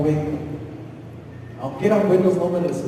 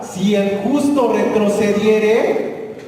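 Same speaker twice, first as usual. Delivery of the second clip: louder, higher, driving pulpit voice; full-force preaching; 4 semitones higher, 4 dB louder than usual. Acted. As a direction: preach it out to the congregation. Scripture preached aloud.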